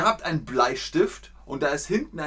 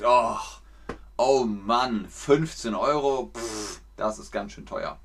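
groaning about the price; 2 semitones lower than usual. Shown as a demonstration. Teacher shows a groan to the class, dismayed. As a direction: moan about the steep price. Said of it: "oder ihr sagt".

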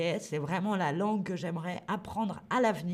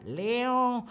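a quick peacock call on Léon; light peacock-call imitation; peacock cry. Shown as a demonstration. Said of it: "le paon braille".

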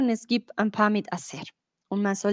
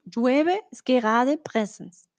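slow explanation; slower than usual. Shown as a demonstration.

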